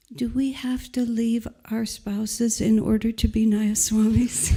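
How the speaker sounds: small, tiny voice, deliberately made little. Retelling a question put to Swamiji, in Shivani's little tiny voice. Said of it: "in this little tiny voice".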